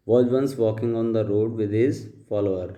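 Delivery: slow, deliberate read-aloud of the paragraph; slow dictation reading. Shown as a demonstration. Teacher reading the paragraph aloud to students, slow and deliberate. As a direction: read each word out slowly for the class. Reads paragraph slowly to class.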